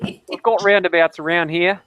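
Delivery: slow put-on Aussie accent; mock Australian local; playful Australian accent. Telling friends about local roundabouts, Australian accent.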